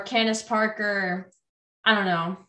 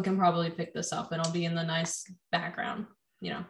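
whispering; 5 semitones lower, 8 dB quieter than usual. Real, not acted. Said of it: "Why are we whispering?".

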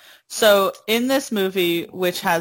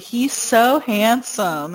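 drawn-out, higher mock swoon; gushing girls; 4 semitones higher, slower than usual. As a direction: lightly imitate a fawning girl, stretching it out. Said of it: "all these girls were like".

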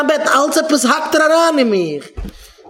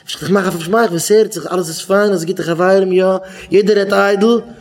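feigned normality; 5 semitones lower than usual. Retold or imitated. Someone hiding trouble says all is fine, feigned normality. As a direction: lower voice, playing that all is fine.

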